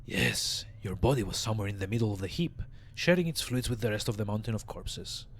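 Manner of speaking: raspy undead mortician voice; raspy old zombie. Acted. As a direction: rasp it out like a weary corpse. Voicing Dahl the zombie.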